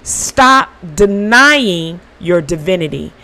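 slow, drawn-out commands; slow, deliberate inner voice; mirror of truth speaking. Retold or imitated. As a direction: lay each word down slowly, like a verdict. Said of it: "the mirror of truth says".

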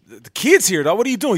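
high, loud scolding call; wife scolding. Retold or imitated. Wife calling out to the cussing friend, loud and high. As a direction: snap at them to stop.

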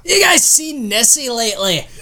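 a light mock Scottish brogue; Scottish accent. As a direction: tease like a Highland local. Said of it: "took a left to Scotland".

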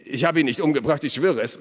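high, urgent protest of innocence; protesting cry. A narrator's reading. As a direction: swear it loudly, pleading to be believed. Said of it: "rief der Schmied". (beteuernd gerufen)

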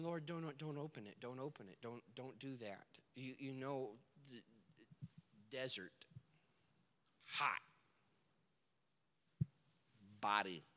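soft, low and anxious; hushed pleading. Acted. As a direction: beg him quietly not to.

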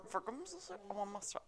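put-on whiny kid voice. Repeats kid request, high pitch.

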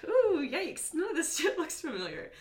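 high, squeaky retold alarm; mock panicked squeal. To her friend, reliving getting lost at the resort, squeaky mock alarm. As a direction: squeak it out like a lost drunk tourist.

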